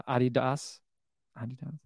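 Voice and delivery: "Adidas" as AH-dee-dahs; European-style Adidas. Shown as a demonstration. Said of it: "there are different pronunci".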